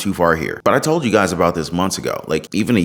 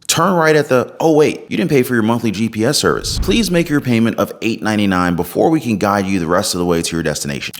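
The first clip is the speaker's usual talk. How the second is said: stiff robotic car navigation voice; 2 semitones higher than usual. Retold or imitated. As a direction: read it like a robot GPS. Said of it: "that was my best robotic voice".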